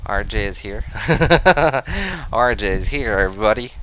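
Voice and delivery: hammy fake Western accent, drawling greeting. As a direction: put on a cheesy cowboy-style Western accent. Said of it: "With my obviously fake Western accent".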